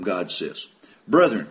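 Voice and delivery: normal talking voice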